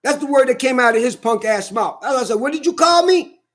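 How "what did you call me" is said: retold angry challenge. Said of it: "I'm getting mad".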